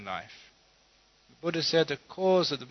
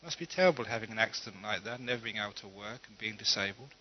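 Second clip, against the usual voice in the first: compassionate sigh; 3 semitones lower, 5 dB quieter than usual. Acted. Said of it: "he felt a lot of compassion".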